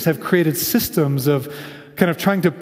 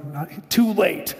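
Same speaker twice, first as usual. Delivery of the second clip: God's slow reply; 3 dB quieter, much slower than usual. Retold or imitated. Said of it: "And God's like".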